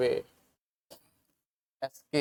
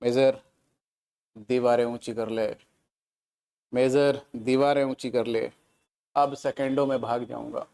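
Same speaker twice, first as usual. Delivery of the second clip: defiant film soldier; 2 semitones lower than usual. Retold or imitated. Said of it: "कहता है ऐसे".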